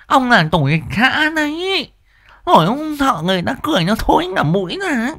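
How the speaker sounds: put-on high scolding old wife; nagging wife Liên.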